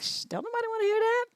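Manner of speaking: hushed, high-pitched mocking squeal; mock shushing. Mock shushing reply to the whiner.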